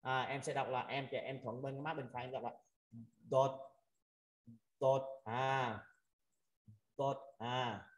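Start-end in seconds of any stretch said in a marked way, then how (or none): 3.3-7.9 "đột" with air pushed into one cheek. Shown as a demonstration. Teacher demonstrating an Arabic letter, cheek-puffed "đột". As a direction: puff the cheek slightly on "đột". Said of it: "đọc đưa cái hơi gió".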